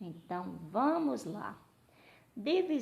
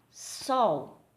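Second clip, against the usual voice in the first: one firm, isolated syllable; one-beat syllable; 4 dB louder than usual. Shown as a demonstration. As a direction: say it as a single clapped beat. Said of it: "batendo palminhas".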